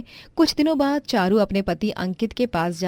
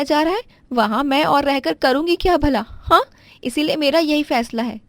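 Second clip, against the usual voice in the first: higher, louder threat to leave home; a young wife storming off, voice pitched up; indignant daughter-in-law; 6 semitones higher, 4 dB louder than usual. Acted. Daughter-in-law insists on leaving.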